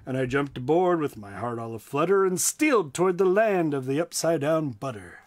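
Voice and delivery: rhythmic rhyming read-aloud; story narration. A narrator's reading. Storyteller reading a rhyme to listeners, with a bouncy lilt.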